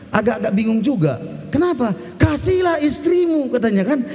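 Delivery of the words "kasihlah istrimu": teriakan lantang, nada tinggi; seruan perintah. Acted. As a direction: serukan lagi perintahnya dengan keras. Quoting the command to husbands. (pengkhotbah mengulang perintah kepada para suami sambil berseru)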